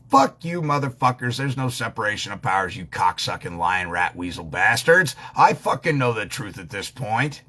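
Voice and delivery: hammed-up furious retort to the officials; mock angry outburst. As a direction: imitate yourself telling officials off. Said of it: "I'm going".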